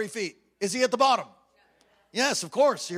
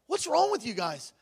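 higher, exasperated retold question; disbelieving, pitched-up quote; incredulous; 5 semitones higher than usual. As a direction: ask it like you can't believe them. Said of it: "I honestly can't believe it".

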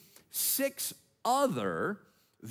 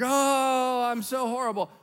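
hammed-up wail; 8 semitones higher, 4 dB louder than usual. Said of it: "act like it".

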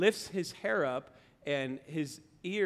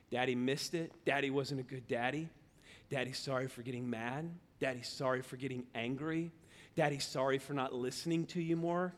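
soft, lower, remorseful daddy talk; tender apology; 4 semitones lower, 5 dB quieter than usual. Retold or imitated. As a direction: gently confess to a small child. Father apologizing to son.

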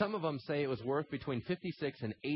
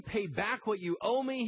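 high, slow, forceful demand; 10 semitones higher, 4 dB louder than usual. A narrator's reading. Servant demanding his money from a fellow servant, forceful. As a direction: demand it in a raised storyteller's voice. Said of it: "he demanded".

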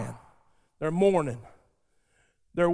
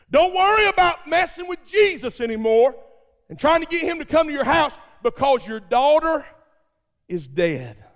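messenger shouting bad news; 6 semitones higher than usual. Messenger brings news of death.

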